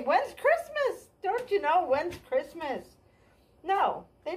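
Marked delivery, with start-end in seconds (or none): 0.0-2.9 a silly pretend question about Christmas, hammed up; mock Christian asking. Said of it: "no Christians ever say".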